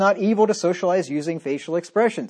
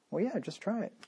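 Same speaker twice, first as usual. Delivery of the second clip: threat; 13 dB quieter than usual. Shown as a demonstration. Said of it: "in two different tones of voice".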